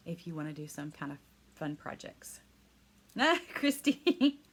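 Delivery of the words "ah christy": delighted. Real, not acted. Delighted reaction to a comment.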